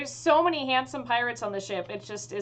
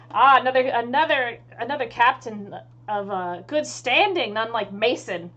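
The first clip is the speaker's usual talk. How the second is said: hearty, louder pirate greeting; lightly voiced pirate captain hailing a fellow captain; 7 dB louder than usual.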